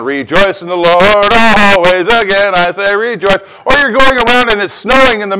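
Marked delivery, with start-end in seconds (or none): 0.0-3.4 joyful. Retold or imitated.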